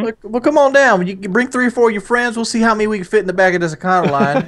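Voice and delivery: car salesman pitch. Acted. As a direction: act out selling a van to a customer.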